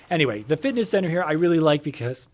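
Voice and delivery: a bit of saliva in the mouth; wet mouth. Real, not acted. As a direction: speak through a little spit. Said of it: "sorry, I got a little saliva in my mouth".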